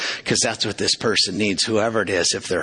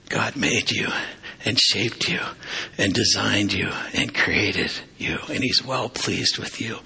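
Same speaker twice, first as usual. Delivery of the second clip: gentle reassurance. Retold or imitated. Friend comforting him with good news.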